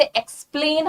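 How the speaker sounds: एक्सप्लेन said with a clear "ks"; careful "eks-PLAIN" for एक्सप्लेन; audible x sound. Shown as a demonstration. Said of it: "यहाँ पे एक्स की आवाज आती है".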